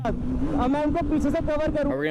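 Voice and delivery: high, slow stunned question; aghast at the crash; shocked disbelief. Real, not acted. Watching a crash clip.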